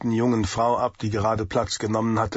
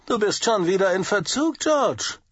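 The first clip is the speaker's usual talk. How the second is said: hissed through teeth; 8 semitones higher than usual. A narrator's reading. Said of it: "zischte Riley zwischen zusammengebissenen Zähnen".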